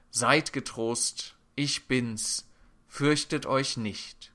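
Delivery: slow, measured words of comfort; calm reassurance. Acted. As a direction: reassure the frightened, unhurried. Jesus quoted giving comfort. (langsam und beruhigend)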